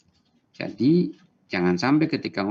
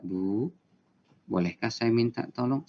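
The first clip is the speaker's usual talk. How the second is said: calming tone. Shown as a demonstration. Teacher demoing asking mother for help, gentle and calm. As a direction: ask your mother kindly and calmly. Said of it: "Nada yang menenangkan kan?".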